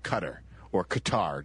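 "Qatar" first as CUT-er, then "Qatar" as kuh-TAR; two rival pronunciations. Shown as a demonstration. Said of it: "depending on who you listen to".

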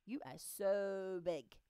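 slow, drawn-out amazement; astonished snail. Acted. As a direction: stretch it out as an awed snail. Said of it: "gasped the snail".

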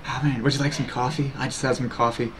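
low, hushed seductive chat; sultry mistress. Pretend. Streamer offering chat a good time and coffee, sultry. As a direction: purr to the viewers in a deep, soft voice. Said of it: "now you're sultry misters too".

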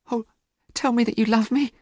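high, desperate plea; pleading cry, very high. A narrator's reading. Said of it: "cried Sybil".

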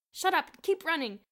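high loud bark over the shoulder; tossed-off shout. A narrator's reading. Bruno shouts back at Boots while running. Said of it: "Bruno tossed over his shoulder".

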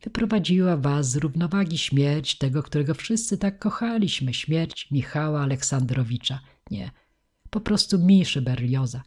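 ceremonious, soothing oratory; jubilee-speech voice. A narrator's reading. Jovial man calming the grieving poet, in jubilee-speech voice. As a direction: orate solemnly to calm him. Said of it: "jubileuszowym głosem".

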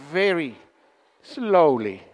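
"slowly" stretched and falling. Shown as a demonstration. Explaining how side groups spoke, very slowly. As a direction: draw out "Very slowly" with pauses. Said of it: "They spoke slowly".

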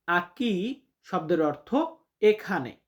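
normal talking voice

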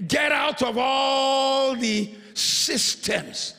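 booming voice of God. Acted. God's command in sermon.

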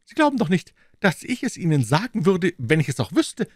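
loud, high-pitched scornful character voice; contemptuous. A narrator's reading. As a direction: scoff at the captors in a high voice. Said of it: "erwiderte Mister Jones verächtlich". (verächtlich, laut und hoch)

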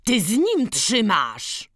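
loud, high, drawn-out accusation; accusing shout. A narrator's reading. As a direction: cry out as you catch him out. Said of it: "aż się Antek poznał i krzyknął". (oskarżycielski krzyk)

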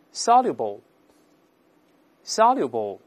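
slow, careful soluble, soluble, every syllable clear; read aloud slowly. Shown as a demonstration. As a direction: spell out soluble, soluble slowly for the class. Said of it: "我们大声读一下".

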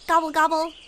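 playful gobbling turkey call; turkey gobble. Pretend. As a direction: lightly imitate a gobbling turkey. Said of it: "I can gobble like a turkey".

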